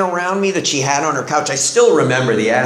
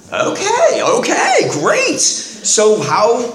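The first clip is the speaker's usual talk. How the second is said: high giddy laughing disbelief; 10 semitones higher, slower than usual. Retold or imitated. Retold reaction, repeating question.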